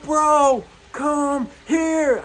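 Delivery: calling him in for a big hug; joyful call. Retold or imitated. About to hug the changed man.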